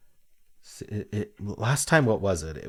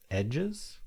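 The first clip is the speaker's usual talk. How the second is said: edges asked with a high, rising, questioning lift; unsure guess; 7 semitones higher than usual. Real, not acted. Solving the crossword alone, unsure guess. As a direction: float the word edges up as a tentative guess.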